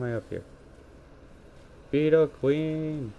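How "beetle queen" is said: high, drawn-out alarmed cry of the boss name; startled, stretch the name out; alarmed boss sighting; surprised call. Real, not acted. Spots a boss in game.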